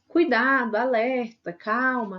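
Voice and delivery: alarmed call of "Cuidado"; warning shout. Shown as a demonstration. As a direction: cry "Cuidado" as a sharp alert. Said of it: "Advertência".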